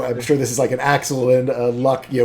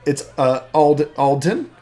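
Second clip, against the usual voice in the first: put-on high-pitched, lively young woman; eager daughter; 6 semitones higher, 3 dB louder than usual. Daughter introducing her dad to new friends, eager. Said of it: "calls you guys over and goes".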